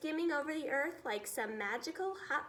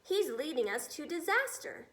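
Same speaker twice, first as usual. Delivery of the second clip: fearful cry; 3 semitones higher than usual. Acted. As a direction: shake with fear as you cry it. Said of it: "cried the head of the Air Force".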